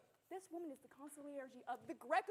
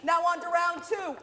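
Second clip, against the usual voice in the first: booming prize announcer; 13 dB louder than usual. Acted. Game show host opening round.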